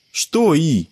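put-on high boy's voice, puzzled; a boy caught off guard, high; puzzled child. A narrator's reading. Sebastian answers Bruce, high puzzled child voice.

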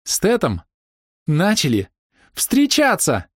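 put-on girl squealing she has a boyfriend; happy hysterics. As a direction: burst out giddy with joy. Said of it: "с той же счастливой истерикой".

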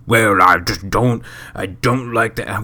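lightly voiced whiny complainer; internet mark complainer voice. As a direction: stretch it out like a sulky internet fan. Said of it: "internet mark complainer voice".

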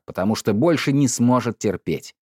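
usual speaking voice

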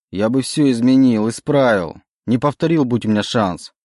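pleading. Acted. The demon pleads with Oleg to forgive him, urgent and loud. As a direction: try hard to convince him. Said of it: "убеждал демон".

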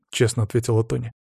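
ordinary delivery

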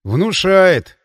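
breathy gasp after a burning shot; breathed out. Acted. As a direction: gasp it out after strong drink. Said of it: "выдохнул я".

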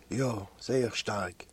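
low, slow, soft sick answer; weak reply. A narrator's reading. Feverish Ellik answers his friend about his headache, weakly. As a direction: answer slowly and quietly, as if ill.

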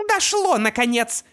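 high, loud triumphant cry; shouted. A narrator's reading. Opal crows at Artemis, high and loud. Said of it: "вскричала мать Артемиса голосом Опал".

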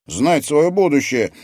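slow, loud, high wonder; drawn-out excited marvelling; thrilled exclamation. A narrator's reading. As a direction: savour it with amazement. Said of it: "воскликнул Алекс".

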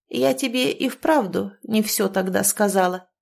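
usual speaking voice

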